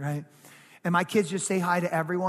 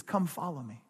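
softer, lower, gentle invitation; personal invitation; 4 semitones lower, 6 dB quieter than usual. Acted. Preacher voices Jesus calling each sheep, gently personal. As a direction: invite one person by name, quietly. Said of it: "It's personal".

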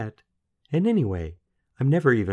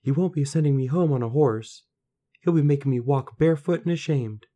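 put-on high, loud lamenting girl voice; gloomy girl; 8 semitones higher, 6 dB louder than usual. A narrator's reading. Daughter imagining being sent home in shame, gloomy high lament. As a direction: fret aloud as the worst sinks in. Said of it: "stared gloomily at the straw".

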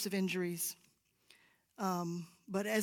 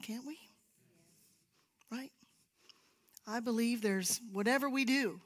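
ordinary talk

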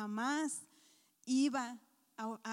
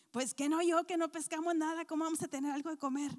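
exasperated retort; 4 semitones higher, 3 dB louder, faster than usual. Acted.

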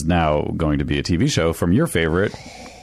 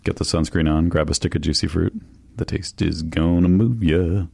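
jingle ad voice; 2 semitones lower than usual. Retold or imitated. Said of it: "their little jingles".

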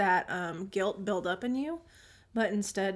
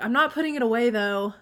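imitating a bratty kid, raised voice; 2 semitones higher, 7 dB louder than usual. Child walking down the hall grumbles to mom, bratty. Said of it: "That was kinda bratty".

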